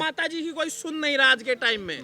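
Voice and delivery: shouted question over the crowd. Real, not acted. Reporter shouting his question to the woman over crowd noise.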